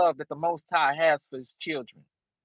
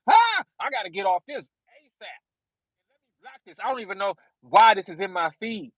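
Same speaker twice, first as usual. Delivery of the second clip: a hammed-up irritated viewer, higher; mock annoyed viewer; 3 semitones higher than usual. Preacher mimicking a sinner stumbling on the channel, mock annoyed. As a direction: play the grumbling YouTube viewer.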